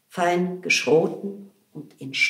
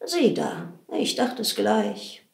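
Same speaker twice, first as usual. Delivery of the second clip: gently said, a touch softer; mild and soft; 2 semitones higher than usual. Acted. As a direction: say it mild and gentle like a kind old widow. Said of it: "Witwe Bolte mild und weich sprach".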